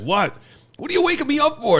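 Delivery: high-pitched mock grievance; woken man imitation. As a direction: re-enact a sleeper complaining at being woken. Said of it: "there's this homeless guy sleeping".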